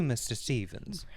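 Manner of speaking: slow, unvoiced whisper; dramatic whisper. The mother distrusting Mister Stevens, in a whisper. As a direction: breathe the name like a secret.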